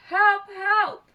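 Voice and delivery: two high, urgent yelps; loud, high storybook cries; witch crying for help. A narrator's reading. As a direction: call out desperately for rescue. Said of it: "cried the witch".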